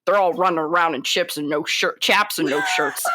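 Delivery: an indignant country impression, slightly slipping; Sam Elliott. Co-host reading the actor's complaint, half-slipped cowboy impression. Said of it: "I went a little bit Scottish there at the end".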